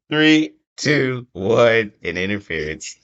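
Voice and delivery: restating his pick after a countdown; countdown reveal again. Real, not acted. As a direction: repeat the countdown for the host, then restate the pick. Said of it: "give our official three, two, one back like we used to do".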